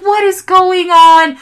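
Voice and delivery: exasperated disbelief. Retold or imitated. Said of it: "And I'm like".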